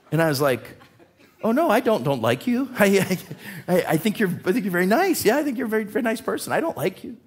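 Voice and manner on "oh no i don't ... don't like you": nervous, laughing backpedal, pitch up; flustered laughing denial. Retold or imitated. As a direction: laugh your way through an awkward fib. Retelling own flustered denial.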